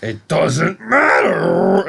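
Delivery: slow, high, hammed-up tearful line; imitating a sobbing Clay; mock weepy Clay. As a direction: play Clay close to tears, dragging it out. Retelling Clay's defeated scene.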